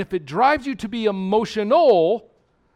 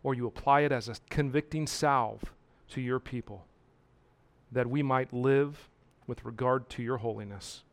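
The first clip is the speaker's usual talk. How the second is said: soft, hushed pastoral prayer; closing prayer; 6 semitones lower, 7 dB quieter than usual. Acted. Pastor praying over his people, softly. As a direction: pray it quietly over the congregation.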